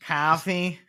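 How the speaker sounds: mock Boston accent on "coffee". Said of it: "don't do that accent again".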